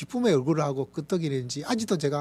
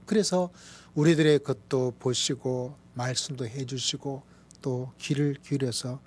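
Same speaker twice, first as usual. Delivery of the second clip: ordinary talk, nothing marked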